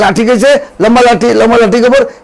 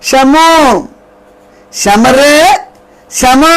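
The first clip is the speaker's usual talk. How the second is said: affectionate nickname call; 3 semitones higher, slower than usual. Shown as a demonstration. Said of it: "अब पूरा नाम लेगा नहीं".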